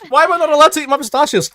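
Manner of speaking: high, loud, fast whiny imitation; mocking whiny voice. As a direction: whine it like a kid denied snacks. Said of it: "And Barry's like".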